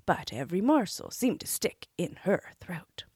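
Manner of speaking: ordinary delivery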